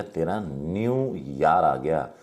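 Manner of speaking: slow, drawn-out न्यू यार; mother's slow emphasis. Retold or imitated. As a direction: stretch न्यू यार so it sounds like the river Yarra. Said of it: "माँ कहती है बड़े बेटे से". (माँ बड़े बेटे से, धीमे खिंचे स्वर में)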